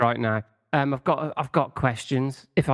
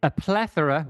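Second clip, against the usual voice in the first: exaggerated cartoon intonation. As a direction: lean into plethora like a showy big word.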